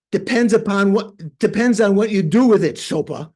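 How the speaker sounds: acted-out stern reprimand. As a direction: scold him firmly, leaning hard on the words. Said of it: "You know, very stern".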